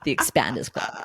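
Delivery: put-on American accent from an Australian. Shown as a demonstration. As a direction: do your American impression. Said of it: "give us your impression".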